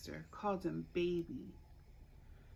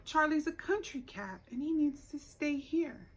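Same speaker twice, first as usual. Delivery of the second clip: higher, louder firm mother voice; firm mom; 6 semitones higher, 4 dB louder than usual. Acted. Mom telling the girls the cat stays, firm. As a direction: lay down the rule like a mom. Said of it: "Mom said no".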